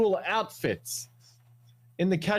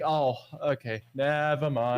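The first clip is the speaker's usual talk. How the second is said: lower, deflated dismissal; acted letdown; 4 semitones lower than usual. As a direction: drop the pitch and give up on it. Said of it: "it's just like".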